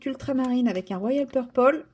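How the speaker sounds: English colour names with a French accent; real French accent on English words. Real, not acted. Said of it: "mon accent anglais vous fait toujours autant kiffer".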